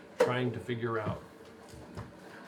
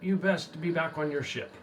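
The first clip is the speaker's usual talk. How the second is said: tax collector warning; 5 semitones higher than usual. Acted. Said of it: "He says".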